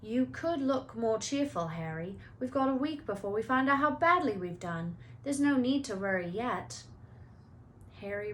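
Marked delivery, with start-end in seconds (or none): 0.0-6.8 lightly voiced teenage boy; a hint of cheerful schoolboy; Ron voice.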